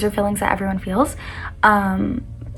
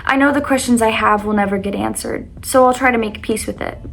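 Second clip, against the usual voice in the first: reading her poem aloud, louder; 3 dB louder than usual. Acted. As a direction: read it like a heartfelt poem. Reads her own poem aloud.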